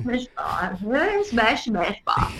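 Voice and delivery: slow, silly mock British accent. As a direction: poke fun in a put-on British accent. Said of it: "That's being a little British racist".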